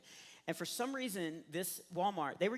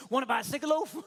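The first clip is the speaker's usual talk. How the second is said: loud, high-pitched shouted question; 7 semitones higher, 7 dB louder, faster than usual. Retold or imitated. Jumping in front of a man at the airport, shouting. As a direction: blurt it out at full volume. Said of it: "what my crazy brain kicked out".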